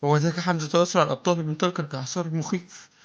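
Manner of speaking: high, loud heroic declamation; hammy stage actor. Acted. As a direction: declaim it like an epic battle. Epic battle description.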